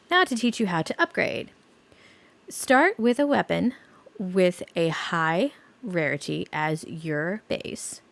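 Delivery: stiff robotic reading. Acted. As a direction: read it like a machine. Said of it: "Reading that like a robot".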